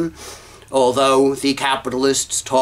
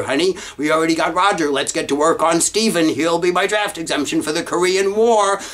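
imagined father; 4 semitones higher than usual. Retold or imitated. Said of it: "my father must have said".

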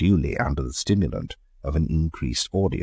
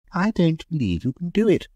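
provocative taunt. A narrator's reading. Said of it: "laughed Mary provocatively".

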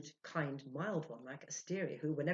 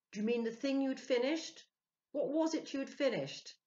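high, urgent asking; eager question; 10 semitones higher, 7 dB louder than usual. A narrator's reading. Ludovic pressing the spirit, high and urgent. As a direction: push for the answer.

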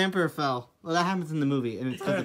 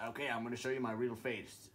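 deep Emperor voice; 8 semitones lower, 19 dB quieter than usual. Acted.

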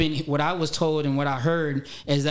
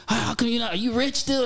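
lightly imitated nosy fan, higher pitched; retold question in a higher voice; curious fan; 7 semitones higher than usual. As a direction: raise the pitch for a mock-puzzled question. Voices puzzled people who recognize him.

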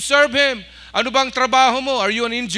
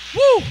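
short, high celebratory whoop; 4 dB louder than usual. Real, not acted. Pastor cheering after shouting thanks with congregation, high whoop. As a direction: let out a loud, high "woo".

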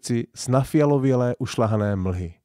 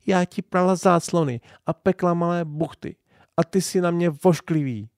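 mild reproach; 7 semitones higher than usual. A narrator's reading. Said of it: "řekla ještě s výčitkou, ale ne tak prudkou".

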